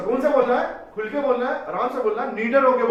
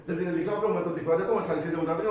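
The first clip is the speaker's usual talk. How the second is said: hastiges Sprechen; faster than usual. Shown as a demonstration. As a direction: demonstrate rushed speech. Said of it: "जल्दी जल्दी बोलने वाले इंसान".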